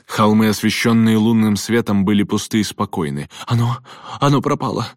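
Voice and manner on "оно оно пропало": high-pitched, halting whimper; frightened boyish whine. A narrator's reading. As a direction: whine it like a scared boy, much higher. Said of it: "проскулил Берти".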